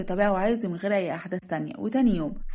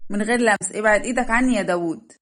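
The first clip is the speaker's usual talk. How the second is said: loud hands-off protest; indignant warning; 5 dB louder than usual. Acted. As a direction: warn him off with a raised voice. Bride orders hands off. (تحذير غاضب بصوت مرتفع)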